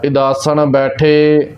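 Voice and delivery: slow, measured Gurbani recitation; slow devotional reading with long final vowels; scripture recitation. Shown as a demonstration. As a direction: recite line by line, stretching the line endings. Recites scripture between explanations.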